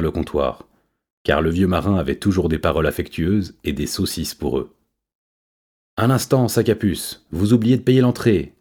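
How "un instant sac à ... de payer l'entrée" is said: high yapping monkey voice; yelping chimpanzee. A narrator's reading. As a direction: yelp it out, high and sharp. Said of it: "glapit Mathias".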